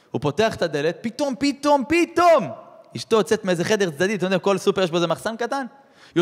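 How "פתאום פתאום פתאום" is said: rising higher on each פתאום, the last one loudest; climbing dramatic cry; sudden shock. Acted. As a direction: build the suspense to a shocked burst. Sudden dramatic reveal in story.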